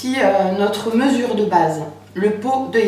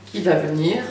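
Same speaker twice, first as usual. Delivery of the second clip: low, straining at a stuck lid; strained, low, fighting the cap; opening a stuck jar; 5 semitones lower than usual. Real, not acted. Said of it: "j'arrive pas à l'ouvrir".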